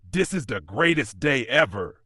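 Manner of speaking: giddy, gleeful mechanic voice; hysterical glee. Acted. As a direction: gush it like a manic tinkerer. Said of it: "giggles hysterically".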